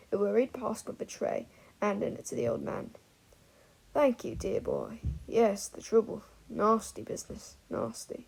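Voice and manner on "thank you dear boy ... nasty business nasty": put-on drunk old man.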